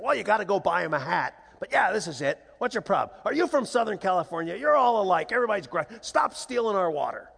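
mildly gruff, dismissive retort building to accusation; irritated coach. Retold or imitated. Small-town coach berating a Southern Californian dad, mock irritation. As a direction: brush the parent off, then scold.

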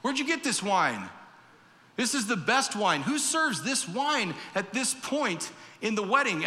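mock astonished guest asking who made this wine; amazed wedding guest. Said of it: "He's freaking out".

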